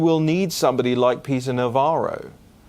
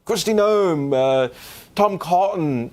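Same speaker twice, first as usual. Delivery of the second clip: higher, lively mock voice of the people around him; imitating eager supporters; 6 semitones higher than usual. Host mimicking people who pitch candidates to him, higher mock voice. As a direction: rattle off names like an excited fan. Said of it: "people saying".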